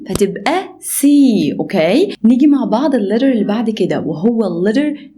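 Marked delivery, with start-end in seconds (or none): 0.1-1.5 slow C. Shown as a demonstration.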